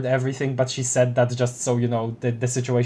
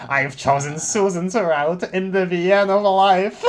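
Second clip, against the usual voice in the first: grand line dissolving into laughter; pompous reading, cracking up; laughing declaration; 6 semitones higher, 5 dB louder than usual. Acted. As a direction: pitch climbs as laughter takes over. Reader cracks up mid dialogue.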